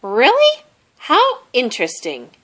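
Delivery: high, amazed little squeak; curious surprise. A narrator's reading. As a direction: sound genuinely intrigued. Mouse fascinated.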